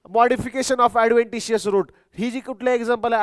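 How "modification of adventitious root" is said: very slow, word-by-word dictation; teacher dictating notes, very slow. Shown as a demonstration. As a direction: spell it out slowly for note-taking.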